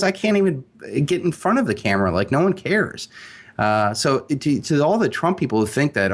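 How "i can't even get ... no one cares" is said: whining. Retold or imitated. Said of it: "Jeb Bush was whining".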